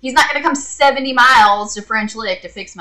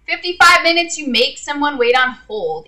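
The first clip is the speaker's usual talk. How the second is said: exasperated outburst; 6 semitones higher than usual. Real, not acted. Venting about the warranty hold time, exasperated high burst. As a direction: fling out fifty-five minutes in outrage.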